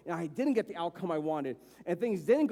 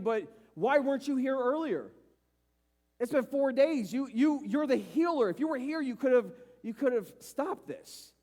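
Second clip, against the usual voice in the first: bold grieving Mary; 5 semitones higher than usual. Retold or imitated. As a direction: confront Jesus with grief. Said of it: "I love their boldness".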